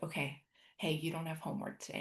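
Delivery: soft, fast gentle inner voice; a soft, fast inner voice reassuring her; calm inner voice. Retold or imitated. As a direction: quietly reassure yourself. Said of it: "that voice came in".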